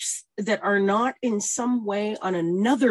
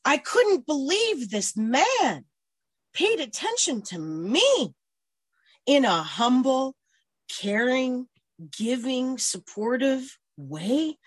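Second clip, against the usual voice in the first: higher, slow, drawn-out words; moved disbelief; 5 semitones higher, slower than usual. Real, not acted. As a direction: marvel at it, lingering on each word. Moved by being noticed.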